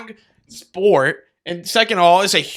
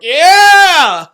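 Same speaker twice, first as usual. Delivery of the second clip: much higher, louder stadium yell; mock fan yell; 12 semitones higher, 14 dB louder than usual. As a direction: yell from the top row of the stands. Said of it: "you're like".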